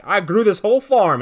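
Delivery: hammed-up bragging hero; proud boast. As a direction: belt it out like a triumphant hero. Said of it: "Meteor Man's like".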